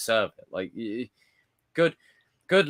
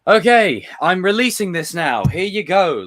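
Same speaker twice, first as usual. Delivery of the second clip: much higher, loud mock executive; mock careless studio; 10 semitones higher, 10 dB louder than usual. Mocking a studio that rushes films out, high and loud. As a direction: toss it out like a lazy studio boss. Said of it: "someone just going".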